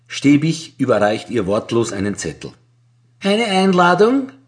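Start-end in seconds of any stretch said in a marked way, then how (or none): 3.2-4.3 smiling question. A narrator's reading. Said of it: "fragt sie lächelnd".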